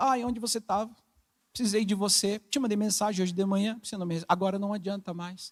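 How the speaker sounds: soft, monotone, reproachful guilt-tripping complaint.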